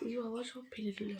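hushed dismayed whisper. Real, not acted. Mother whispering as baby spills food, hushed. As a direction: whisper as if to yourself.

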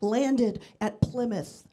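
bragging. Retold or imitated. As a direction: imitate a self-important boyfriend. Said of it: "He's always bragging about his ancestry".

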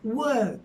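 "Work," as "wök" with silent r; correct work, no r. Shown as a demonstration. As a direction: say "Work," loudly with a long ö vowel. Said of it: "R sesi hiç yok".

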